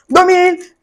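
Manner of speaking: amused, laughing echo of the price; chuckling as she says it again; laughing repeat. Retold or imitated.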